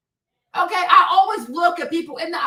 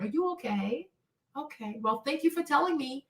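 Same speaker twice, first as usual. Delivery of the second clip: hushed, careful whisper; 9 dB quieter than usual. Pretend. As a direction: soothe him softly so he stays calm. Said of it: "I'ma start whispering".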